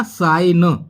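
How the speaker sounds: साइन drawn out with no g sound; silent g. Shown as a demonstration. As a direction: say साइन slowly as sine, g left silent. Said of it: "केवल बोला गया".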